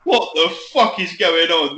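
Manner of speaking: slow, baffled mock disbelief; a stunned newcomer, slowly; bewildered. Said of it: "I'm just like".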